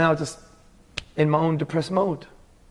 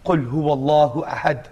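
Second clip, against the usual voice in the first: rapid Arabic recitation; quick Quran recitation; much faster than usual. Shown as a demonstration. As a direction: rattle off the verse fast. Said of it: "I'm learning chapters in Arabic".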